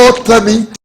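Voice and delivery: high, loud imitation of an accusing boy; accusing child. Boy catches adult lying, high loud accusation. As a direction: crow it like a child catching a liar.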